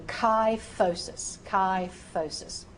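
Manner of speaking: "kyphosis" slowly as "kai-FOH-sis"; F sound for PH. Shown as a demonstration. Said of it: "I made that an F sound".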